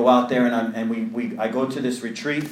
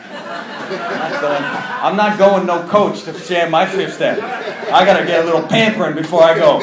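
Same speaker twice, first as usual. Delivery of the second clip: mock diva; 5 dB louder than usual. Joking about flying first class.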